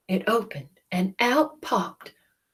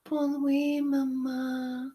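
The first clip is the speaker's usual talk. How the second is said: higher sleepy French duckling; baby duck goodnight; 6 semitones higher, slower than usual. Acted. Duckling saying goodnight to Jack. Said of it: "said the baby duck".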